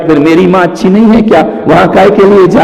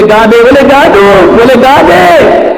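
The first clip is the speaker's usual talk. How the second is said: rising exchange; 9 semitones higher, 6 dB louder, slower than usual. Retold or imitated. Escalating back-and-forth.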